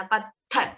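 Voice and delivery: पत्थर with an airy th and a rising end; model word. Shown as a demonstration. Teacher to students, modelling the word for them to copy. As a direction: try पत्थर with the tongue between the teeth. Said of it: "पत्थर बोलने का try करना".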